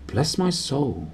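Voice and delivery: soft and slow, awed; hushed whisper. Acted. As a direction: breathe it out in awe. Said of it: "whispered the old barman".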